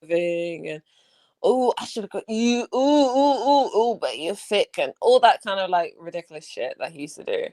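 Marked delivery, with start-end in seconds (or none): 1.4-4.8 mock flirty. Mocking ex's flirty online talk.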